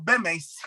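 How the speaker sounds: "Bemes" with a final s, Ashkenazi Yiddish style; Yiddish accent. Retold or imitated. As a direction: end "Bemes" on an s sound. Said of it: "con ese al final que es un acento".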